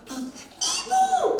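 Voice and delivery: high, drawn-out singsong greeting; greeting an acquaintance. Retold or imitated. Stranger greets Ibu from behind, high drawn-out greeting. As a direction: call out high and stretch it.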